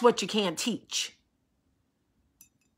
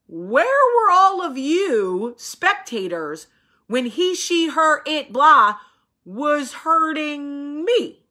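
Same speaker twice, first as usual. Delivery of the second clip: slow, loud and higher outrage; indignant accusation; 4 semitones higher, 4 dB louder, slower than usual. Real, not acted. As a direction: call out the bystanders. Accusing the spectators.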